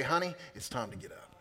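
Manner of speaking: gentle call. Acted. Jesus gently waking a believer, soft and tender. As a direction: ease off and say it like waking a child.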